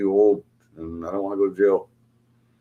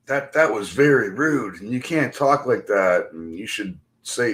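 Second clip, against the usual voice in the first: slow, measured mock lecture; lecturing stranger. Quoting the man who corrected his speech, slowly lecturing. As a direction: imitate someone slowly correcting another's manners. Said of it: "telling me how I'm supposed".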